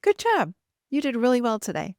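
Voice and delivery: high, lifted cheer to herself; excited self-praise. Retold or imitated. Praising herself after giving a live talk, high and excited. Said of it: "I got off and I said".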